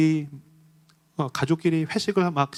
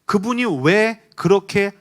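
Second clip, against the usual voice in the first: rising, louder, impassioned preacher's appeal; fervent preaching; 6 semitones higher, 6 dB louder than usual. Acted. Pastor urging his congregation, building into fervent, louder preaching. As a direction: press the question home to the congregation.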